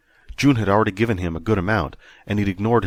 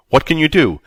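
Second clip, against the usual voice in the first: exasperated; 7 semitones higher, 7 dB louder than usual. A narrator's reading. Exasperated with computer.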